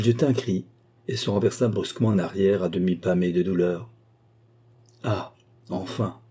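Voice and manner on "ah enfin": slow, soft murmur. A narrator's reading. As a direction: murmur it slowly, as if at last. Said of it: "murmura sir Williams". (murmure lent et doux)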